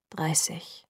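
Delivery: a stunned, breathless whisper; shocked whisper. A narrator's reading. Bella whispers the number in shock. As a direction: let the word fall out in shock.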